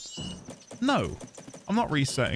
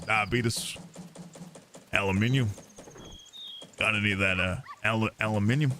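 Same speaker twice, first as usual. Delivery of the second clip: mock British accent; 8 semitones lower than usual. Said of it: "I just say".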